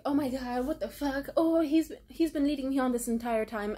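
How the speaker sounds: imitating a friend's rising, loud dismay; mock distraught gasp at being led on; upset outburst. Sala realises Marco led her on, distraught outburst.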